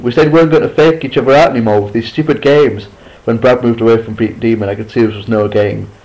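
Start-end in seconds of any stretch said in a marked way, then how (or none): 0.0-2.9 scolding. Acted. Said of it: "I scolded".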